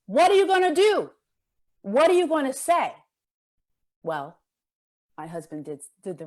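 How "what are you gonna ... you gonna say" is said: much higher and louder, pleading with rising urgency; pleading cry. Retold or imitated. Speaker voicing the people's plea on the streets, an impassioned cry. Repeated plea, building intensity.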